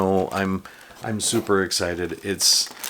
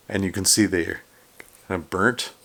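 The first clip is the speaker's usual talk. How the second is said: speaking with the hiccups; hiccuping between words. Real, not acted. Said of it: "got the hiccups here".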